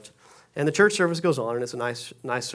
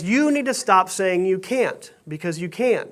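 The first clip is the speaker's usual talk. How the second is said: firm pastor call-out; 3 semitones higher than usual. Retold or imitated. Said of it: "Points at him and says".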